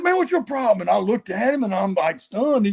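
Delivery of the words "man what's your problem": imitating an offended veteran, higher-pitched; retelling a gruff challenge, pitch raised; a hint of a riled-up old-timer; mock irritation. Tommy Rich confronts him.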